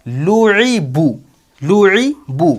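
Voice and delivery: slow "लुईबू", ending on long "बू"; pesh joining demo. Shown as a demonstration. Teacher putting pesh on the last letter, drawn-out "लुईबू". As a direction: hold each vowel of "लुईबू". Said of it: "पेश लगा देंगे इसके ऊपर हम".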